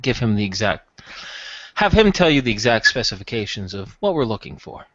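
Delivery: measured and careful, picking words; lightly played smooth buyer; discreet customer.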